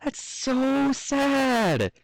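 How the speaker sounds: high, very slow pitying little filly; a small pony's heartfelt pity, dragged out; tearful filly. Acted. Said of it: "her eyes glistening".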